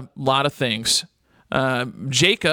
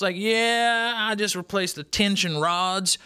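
a lightly put-on hillbilly accent, higher; mock hillbilly accent; 4 semitones higher than usual. Host bragging about fixing his washing machine, in a light mock hillbilly accent. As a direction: play up a hillbilly accent as a joke. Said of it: "I do the hillbilly accent".

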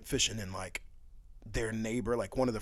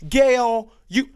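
high, loud name call; imitated wife; 9 semitones higher, 10 dB louder than usual. Imagined wife calling relative by first name.

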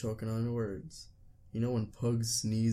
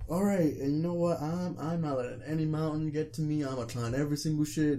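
hyped; 4 semitones higher than usual. Retold or imitated. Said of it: "He was, like, so hyped and shit".

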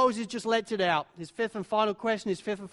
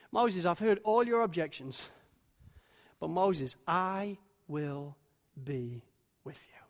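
gentle assurance; 3 semitones lower than usual. Acted. God to overwhelmed Moses, fading to a whisper. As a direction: let the promise sink to a breath.

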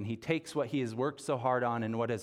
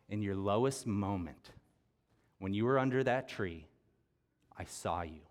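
tender Jesus voice; 3 semitones lower than usual. Retold or imitated. Jesus speaks tenderly to Nathanael.

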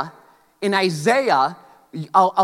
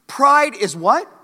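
slow call to crowd; 6 semitones higher, 3 dB louder, much slower than usual. Real, not acted. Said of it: "preacher asks the crowd".

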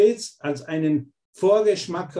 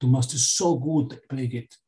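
gentle loving voice; 3 semitones lower than usual. Retold or imitated. Holy Spirit reassuring a student, gently and tenderly. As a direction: comfort them like a loving guide. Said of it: "Der Heilige Geist sagt".

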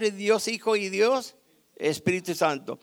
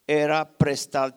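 acted cry out; 8 dB louder, slower than usual. Preacher voices the young man who lost the axe, acted cry out. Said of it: "y gritó diciendo".

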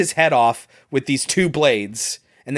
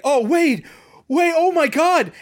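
higher, panicked babbling; mock terror; 12 semitones higher than usual. Host imitating Dalton finding Wade, higher mock panic. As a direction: play the bumbling scared friend. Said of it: "and he's like".

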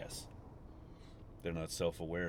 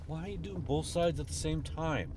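frustrated; 11 semitones higher than usual. Real, not acted. Driver berating road workers from the car, frustrated outburst. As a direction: yell at them through the windscreen, fed up. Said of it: "I'm really frustrated".

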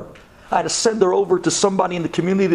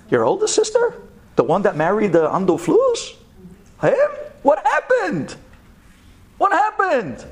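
much higher, stunned questions; shocked disbelief; 11 semitones higher than usual. Retold or imitated. Rabbi hearing about the older sister's husband, shocked. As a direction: jump up in pitch in disbelief.

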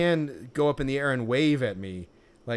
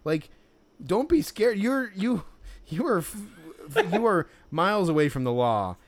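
incredulous; 4 semitones higher than usual. Retold or imitated. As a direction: scoff at the vendor's nerve. Mock retort to the vendor.

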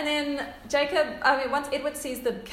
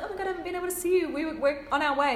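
excited rush; 5 semitones higher, faster than usual. Retold or imitated. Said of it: "Alice is like".

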